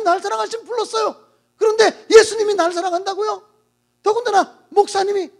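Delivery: acted indignant young woman; bitter outburst. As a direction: throw the words back at him in hurt anger. Woman bitterly rejects the pastor.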